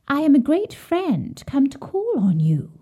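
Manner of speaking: gentle fake voice. A narrator's reading. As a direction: feign friendship in a hushed tone. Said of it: "answered the voice".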